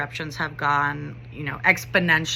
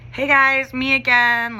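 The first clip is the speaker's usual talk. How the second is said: higher, louder call to a group; raised-pitch, careful hail of wary kids; acted friendly greeting; 6 semitones higher, 5 dB louder than usual. Teacher approaching rowdy students, acted upbeat greeting.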